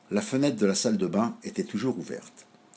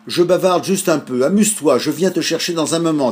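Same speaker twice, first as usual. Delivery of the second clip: lightly voiced gull, higher and louder; a bright seagull voice, chatty; cheerful gull; 6 semitones higher, 6 dB louder than usual. A narrator's reading. (mouette enjouée, voix plus aiguë)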